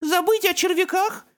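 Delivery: put-on high, horrified little-boy question; a toddler aghast at losing his worms; horrified child. A narrator's reading. Beckett asking his big brother in high childish horror. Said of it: "с ужасом переспросил Беккет".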